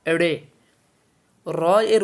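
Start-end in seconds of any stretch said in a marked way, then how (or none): 0.1-0.3 এড়ে said with a flapped retroflex ড়; pronunciation demo. Shown as a demonstration. Teacher models এড়ে for students, careful and clear. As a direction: say এড়ে cleanly, tongue flicked back on ড়. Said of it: "এটার উচ্চারণ হচ্ছে".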